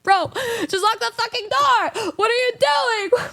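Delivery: high, incredulous scolding; exasperated. Retold or imitated. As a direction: lay into him, disbelieving. Exasperated retort to stranger.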